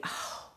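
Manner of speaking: soft, breathy mock sob; crying oh. Telling viewers how she broke down crying, soft imitated cry. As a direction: imitate a tearful oh under the breath. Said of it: "and I'm crying".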